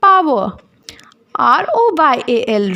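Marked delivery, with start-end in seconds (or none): 1.4-2.7 "R O Y A L" rattled off quickly, letter by letter; teacher quickly spelling "R O Y A L" to the class; fast spelling. Shown as a demonstration. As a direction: spell "R O Y A L" fast and a bit louder.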